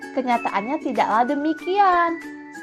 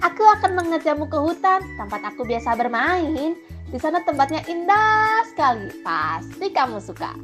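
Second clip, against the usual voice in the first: persuasive monkey, pitch swooping up and down; lilting, wheedling promise; coaxing; 4 semitones higher than usual. Acted. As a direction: sell the outing enticingly. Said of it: "ujar si kera seraya membujuk".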